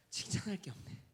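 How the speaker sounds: breathy little aside; hushed aside about having nothing to praise; whispered aside. Acted. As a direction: mutter it to yourself, amused. Aside voicing the Lord.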